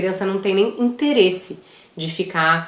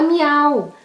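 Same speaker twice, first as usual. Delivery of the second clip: cat sound; 6 semitones higher than usual. Shown as a demonstration. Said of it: "ao invés de falar gato".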